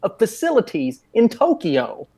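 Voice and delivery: high, drawn-out comic exasperation; exasperated disbelief. Acted. Complaining to Joe about the silly movie line, exasperated.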